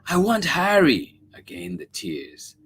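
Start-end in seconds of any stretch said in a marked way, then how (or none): 0.1-1.1 put-on high, pouting child; sulky little girl refusing. A narrator's reading. Child voiced.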